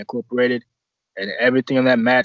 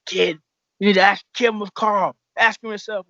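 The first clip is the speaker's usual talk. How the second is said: teasing mentor; 8 semitones higher than usual. Retold or imitated. Voicing older mentor ribbing.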